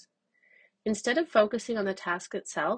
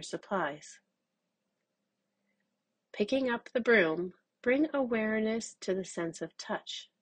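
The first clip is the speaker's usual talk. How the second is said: calm, measured meditation guide; unhurried instructions for a mindful exercise; guided mindfulness. Acted. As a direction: guide listeners gently, with long pauses.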